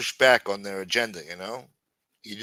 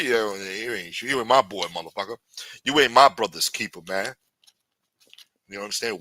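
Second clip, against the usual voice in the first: lightly voiced street hustler laying down the rules; a hint of a Harlem gangster threatening the newcomer; tough Harlem street talk. Podcaster playing a Harlem hustler warning a white newcomer, mild tough-guy voice. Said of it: "hearing me talk this way like".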